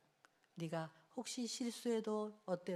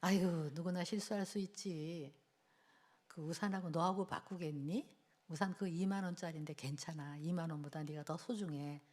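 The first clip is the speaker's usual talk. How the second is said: reassuring mother; 5 semitones lower, 4 dB quieter than usual. Retold or imitated. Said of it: "제가 또 확 올라오는데".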